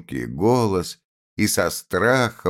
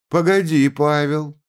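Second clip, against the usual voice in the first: high, loud cry to stop her son; 10 semitones higher, 5 dB louder than usual. A narrator's reading. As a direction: shout him down, much higher and louder. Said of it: "крикнула мать".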